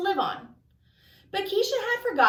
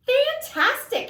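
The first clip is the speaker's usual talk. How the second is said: drawn-out fantastic, much higher, slow; delighted; 11 semitones higher, 4 dB louder, slower than usual. Acted. Miss Frizzle praises the strange report, drawn out and delighted. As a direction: savour the word with delight.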